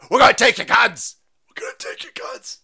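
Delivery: loud, high mocking shout, the second a high unvoiced squeal; mock media shout. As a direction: parody a shrieking news pundit. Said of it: "And the mainstream".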